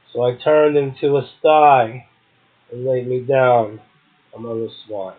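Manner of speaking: emphatic, rhythmic recital of Blake; host reciting William Blake to his audience, forceful and measured; poem recitation. Acted. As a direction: declaim it, leaning on the key words.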